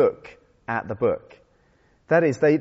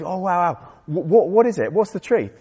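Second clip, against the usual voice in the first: higher-pitched excited alien voice; 4 semitones higher than usual. Acted. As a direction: act out an alien's wide-eyed excitement. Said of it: "gets really excited and goes".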